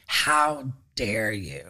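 slow, drawn-out indignant how dare you; "How dare you?" stretched out slowly, with outrage on how; mock outrage. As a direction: play the offended friend, dragging each word out. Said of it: "I'm just ready for".

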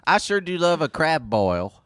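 lightly put-on Southern accent; mock Southern relish; amused, improvised Southern accent. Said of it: "do a Southern accent".

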